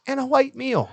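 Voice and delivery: high hammed-up "light meal"; announcer voice. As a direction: mimic the ad read of "light meal". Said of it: "I like how he says light meal".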